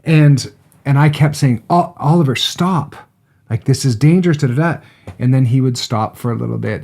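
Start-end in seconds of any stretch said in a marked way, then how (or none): 1.7-4.8 put-on raised, higher-pitched urgent call to a child; retold parental warning. Dad telling Oliver to stop by the fire, raised warning.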